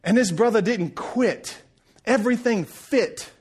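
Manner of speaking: measured, emphatic sermon rhythm; preaching. Acted. Preacher praising the carpenter's tight work, preaching. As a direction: land each point with weight.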